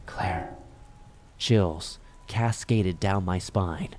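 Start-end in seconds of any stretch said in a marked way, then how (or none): 0.1-0.6 soft, low call of a name; hushed, lowered voice calling; soft ghostly call. A narrator's reading. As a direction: softly call out like a distant voice. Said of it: "soft voice whispering my name".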